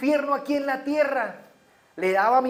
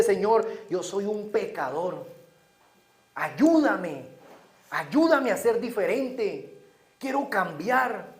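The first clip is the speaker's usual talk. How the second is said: humble prayer; slower than usual. Retold or imitated. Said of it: "presentarnos delante de Dios y decirle".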